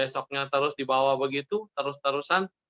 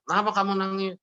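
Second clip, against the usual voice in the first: a hint of concerned mother, pitched higher; mock motherly questioning; lightly voiced mother; 5 semitones higher than usual. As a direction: ask a crying child, lightly acted. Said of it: "mamanya datang".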